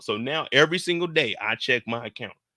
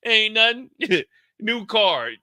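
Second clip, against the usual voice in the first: higher, nervous laugh through the words; 7 semitones higher, 4 dB louder, slower than usual. Retold or imitated. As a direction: laugh it off to the cashier. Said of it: "I'm like".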